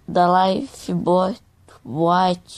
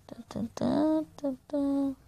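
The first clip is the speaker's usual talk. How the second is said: soft whispered tension hum; whispered suspense; 6 semitones higher, 10 dB quieter than usual. Real, not acted. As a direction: whisper it tensely. Sneaking up in game. (sussurro tenso)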